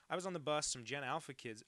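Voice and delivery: loud mock Australian accent. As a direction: read it in a bad Aussie accent. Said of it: "imitating an Australian accent".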